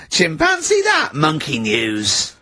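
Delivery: hammed-up jingle announcer. Host launches the monkey news segment, hammed-up jingle.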